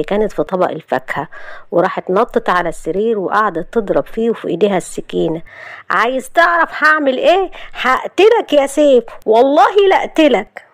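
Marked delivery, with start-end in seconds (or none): 5.9-10.6 murderous rage. Acted. Wife attacking husband with a knife, enraged. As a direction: threaten him in a frenzy.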